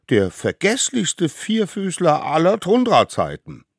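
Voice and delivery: loud, high, squeaky scorn; chiming-in child. Acted. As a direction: back up the objection in a child's voice. Other children join the protest. (laut und hoch zustimmendes Kind)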